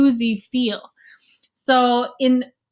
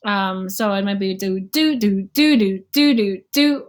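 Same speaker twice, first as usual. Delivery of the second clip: accents pushed onto the offbeat do's; syncopated scat demo; syncopated rhythm; 2 semitones lower than usual. Shown as a demonstration. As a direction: sing the do's with offbeat punch. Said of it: "with syncopation".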